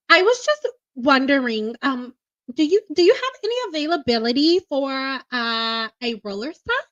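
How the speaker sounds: sweet, hesitant phone inquiry; polite white girl voice. Shown as a demonstration. Calling a salon, a timid, polite booking request. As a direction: ask shyly about a roller set. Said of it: "white girl voice".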